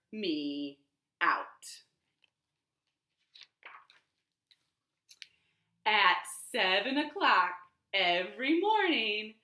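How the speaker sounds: lively picture-book reading; reading to children. Shown as a demonstration. Librarian reading the picture book aloud at storytime. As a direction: read it out warmly to the kids.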